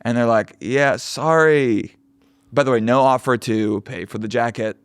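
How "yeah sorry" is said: dismissive owner. Retold or imitated. Mocking the owner's non-apology.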